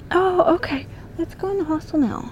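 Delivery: high, sugary fake agreement; fake sweet tone. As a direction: sweeten it up to trick him. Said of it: "I had to trick this motherfucker".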